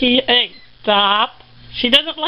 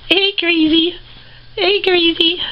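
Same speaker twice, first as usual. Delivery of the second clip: higher calling out to the pet; cheerful raised call to a hyper rat; 6 semitones higher than usual. Real, not acted. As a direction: call the rat's name a bit up.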